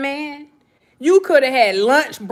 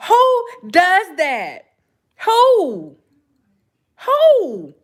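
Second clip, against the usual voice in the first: laughing disbelief; 4 semitones higher, much slower than usual. Real, not acted.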